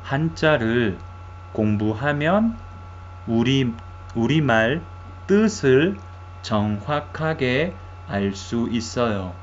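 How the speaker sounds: "한자를 공부하면 우리말 뜻을 정확하게 알 수 있어요" phrase by phrase, pausing between chunks; pronunciation model. Shown as a demonstration. Teacher has learners pronounce the new sentence, "한자를 공부하면 우리말 뜻을 정확하게 알 수 있어요" in chunks.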